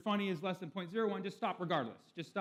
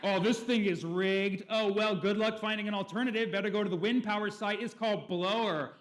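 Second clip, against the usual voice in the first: a hammed-up snide retort; mocking guy; 5 semitones higher, 7 dB louder than usual. App quarrel continues.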